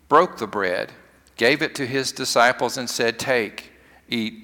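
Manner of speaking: solemn, measured prayer reading; liturgical prayer. Acted. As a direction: intone it like a pastor at the altar. Leads the great thanksgiving prayer.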